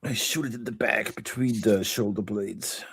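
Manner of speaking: soft whisper of a sneak attack. Acted. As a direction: hush it as if not to be heard. Stealthy attack declaration.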